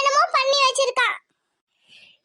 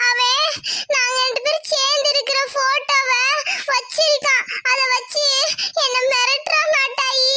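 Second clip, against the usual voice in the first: distressed daughter; 2 semitones higher than usual. Acted. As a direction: plead with the elder through tears. Daughter's tearful account.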